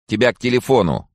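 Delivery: high-pitched shout down the corridor; calling out. A narrator's reading. Dorm prefect calls student to the phone, calling out. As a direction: call someone to the phone, high and urgent. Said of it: "крикнула из коридора".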